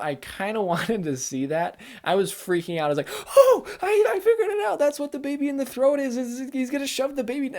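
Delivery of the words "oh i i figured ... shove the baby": much higher, loud and laughing at first; gleeful eureka, giggling through it; laughing realization. Retold or imitated. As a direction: burst out laughing as it clicks. Retelling own realization, laughing.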